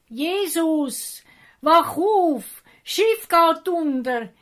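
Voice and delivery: high, loud panicked cries to wake him; frantic loud shouting. A narrator's reading. Frightened disciples shake Jesus awake, shouting loudly. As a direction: shout for help as the boat sinks. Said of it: "haben laut gerufen".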